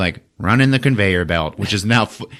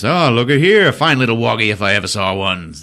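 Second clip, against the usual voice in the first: villain voice; 5 semitones higher, 4 dB louder than usual. Retold or imitated. Voicing villain scavengers.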